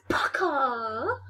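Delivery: drawn-out sound effect; swooping made-up noise; imitated noise. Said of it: "goes straight and it goes".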